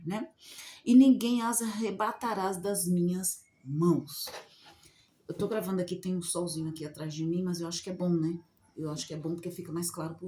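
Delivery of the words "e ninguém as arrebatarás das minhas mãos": slow, measured reading of the verses; scripture reading. Acted. Preacher reading John's verses to her viewers, slow and solemn. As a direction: read the Bible passage slowly and solemnly.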